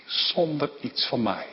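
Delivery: zacht en ingetogen, bijna voor zichzelf; soft first take. Real, not acted. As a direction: say it quietly, inward. Repeats phrase, first softly. (zacht, ingetogen uitgesproken)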